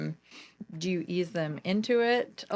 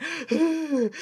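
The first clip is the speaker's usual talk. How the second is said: mock panting gasp like the camel reel; hammed-up winded gasp; imitated camel gasp; 7 semitones higher than usual. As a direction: gasp as if out of breath on the trail. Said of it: "that's what I sounded like".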